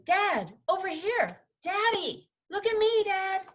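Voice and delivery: high-pitched excited calls to dad; classmates shouting. A narrator's reading. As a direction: call out like kids vying for dad's attention. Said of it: "She could hear her classmates shouting".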